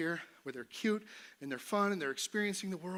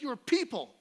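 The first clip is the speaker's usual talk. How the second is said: Moses pleading high; 9 semitones higher, 5 dB louder than usual. Retold or imitated. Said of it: "he'd be like".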